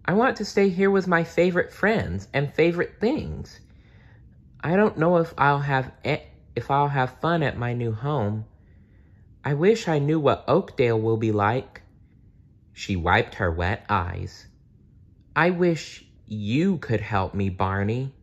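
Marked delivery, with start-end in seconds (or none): 0.0-11.8 put-on high childlike voice, worried; a small girl afraid of moving; sad little girl. Lori's voice continues. 15.3-18.1 put-on wistful girl. Lori pleads to her doll.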